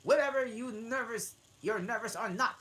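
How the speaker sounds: high and very loud, laughing through; furious king threat. Acted. King threatening the Hatter, high and very loud. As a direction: threaten him at full volume.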